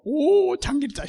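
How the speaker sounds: bright "오" then the name; excited recognition. Shown as a demonstration. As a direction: show eager recognition. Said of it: "시작". (반갑게 아는 척)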